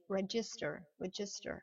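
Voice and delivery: "register" as red-jister, twice; d before g. Shown as a demonstration. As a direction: model "register" with a dj sound. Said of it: "imaginez qu'il y a un D". (« register » prononcé avec un son dj)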